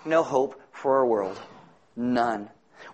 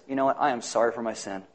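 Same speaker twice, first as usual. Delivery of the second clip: soft, low, remorseful confession; a broken man owning his sin; repentant thief; 5 semitones lower, 5 dB quieter, faster than usual. Retold or imitated.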